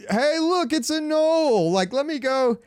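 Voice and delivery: high, sing-song mock of a cuddly gnoll; cutesy mock gnoll. Mocking the new cute gnoll design, high cutesy coo. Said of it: "Gnolls are not like".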